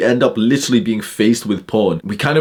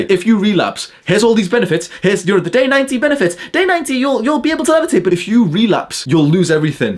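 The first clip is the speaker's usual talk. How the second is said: much higher mocking sales-pitch voice; mocking YouTuber parody; 10 semitones higher than usual. Ridiculing nofap YouTubers' promises to viewers, high and mocking. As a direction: hype it up like a ridiculous guru.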